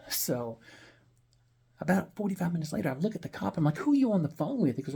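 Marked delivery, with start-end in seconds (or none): 3.8-4.8 pitched up high and pushed louder, confronting; demanding, raised voice. Retold or imitated. Narrator demanding to know who the cop is calling, raised. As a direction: call him out sharply, half-shouting.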